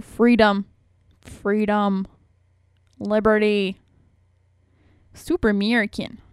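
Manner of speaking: light mock Alaskan politician accent; Sarah Palin accent. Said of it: "That's my Sarah Palin ac-, Palin accent".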